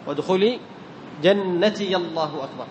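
slow recitation, جنتي الله as "jannatiya-llah"; fatha on ya. Shown as a demonstration. Teacher demonstrates correct takbir link, fatha on ya. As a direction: sound an a after the ya of جنتي. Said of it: "يا الإضافة تحرك بالفتح".

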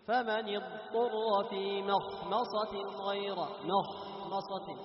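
chanted recitation, sound flowing on ض in اضطر; letting the ض flow. Shown as a demonstration. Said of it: "لاحظ الضاد". (ترتيل مع جريان صوت الضاد في اضطر)

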